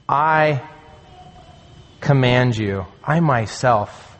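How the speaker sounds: slow, emphatic I, set apart by a pause; emphatic "I", standing alone before the verb; stress on I. Shown as a demonstration. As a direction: lean on "I", pause, then finish deliberately. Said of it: "It's emphatic there".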